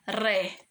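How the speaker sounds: "ré" alone as one syllable; isolated syllable. Shown as a demonstration. Teacher sounding out the third syllable, isolated syllable. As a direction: sound out "ré" on its own. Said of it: "Terceira sílaba".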